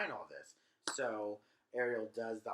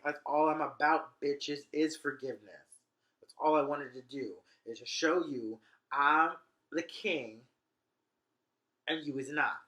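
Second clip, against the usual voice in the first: loud, slow swagger of a lightly voiced duke; boastful Prospero; 2 semitones higher, 5 dB louder than usual. Prospero gloats to the traitors that he is king, loud and slow. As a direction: lord it over them. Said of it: "He's like".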